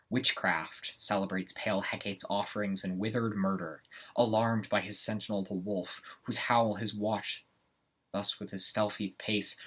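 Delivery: deliberate theatrical verse delivery; measured Shakespearean recitation with brooding pauses; Macbeth in dark soliloquy. Acted. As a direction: address the dagger and the night, weighing each phrase. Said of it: "performing a segment of Macbeth".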